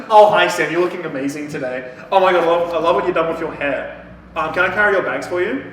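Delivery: butter her up like a desperate fan; fawning simp voice. Retold or imitated. Friend mocking Judith sucking up to Sam, gushing and eager.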